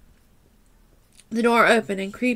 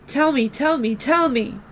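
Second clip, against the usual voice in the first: sobbing demand; 4 semitones higher than usual. Acted. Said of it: "Madison sobbed uncontrollably".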